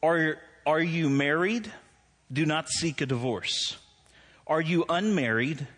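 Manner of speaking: emphatic reading, lifted questions, measured answers; scripture reading. Real, not acted. Preacher reading First Corinthians to church, emphatic reading. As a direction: read scripture out deliberately, settling at the end.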